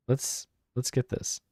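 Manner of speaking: breathy, slow whisper to himself. Real, not acted. Gamer whispering to himself while choosing a focus, slow whisper. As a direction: hush it out under his breath, slowly.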